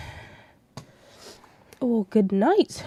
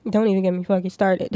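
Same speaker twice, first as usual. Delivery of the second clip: laughing rant; 7 dB louder, faster than usual. Real, not acted. Agreeing he's trash.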